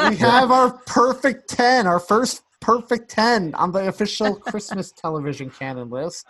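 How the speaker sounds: high, loud proclamation through laughter; elated announcement. Real, not acted. Announcing the first perfect ten.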